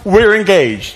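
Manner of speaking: mock-excited squeal of news; excited announcement. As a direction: burst in with thrilling news. Friend announces engagement at work.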